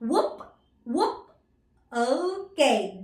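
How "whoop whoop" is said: short rising woof; teacher's tidy little dog bark; dog bark imitation. Shown as a demonstration. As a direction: imitate a dog in two separate yaps. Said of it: "And the dog says".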